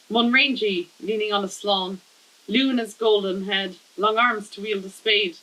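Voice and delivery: measured, lightly performed poetry reading; poem reading. Acted. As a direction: read your poem aloud in even, paused phrases. Reads a second poem aloud.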